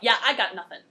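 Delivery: loud, laughing admission; amused giving up. Real, not acted. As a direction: give up with a laugh. Laughs at own nonsense line.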